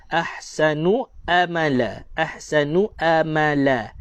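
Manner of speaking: slow wrong-way demo, "amala" starting on a plain a; ain read as hamzah. Shown as a demonstration. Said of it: "ramai orang suka dengan huruf hamzah".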